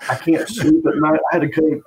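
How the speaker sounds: half-hearted imitation of a furious roommate; angry voicemail rant. Roommate ranting on a voicemail, a mild mock anger. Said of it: "he went from, like, anger".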